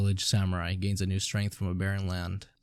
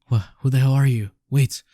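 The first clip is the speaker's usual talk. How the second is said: startled shout; 4 semitones higher, 6 dB louder than usual. Acted. Startled by stranger in scene.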